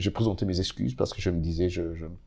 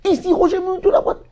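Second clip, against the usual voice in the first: much higher, shouted announcer intro; radio shout again; 7 dB louder than usual. Retold or imitated. Rookie host retaking his intro, still shouting. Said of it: "Je reprends encore".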